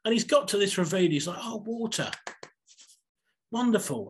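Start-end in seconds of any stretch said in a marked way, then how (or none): 1.4-4.1 high, delighted cry at finding water; really excited. Retold or imitated. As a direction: gasp it out with delight. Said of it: "he's really excited".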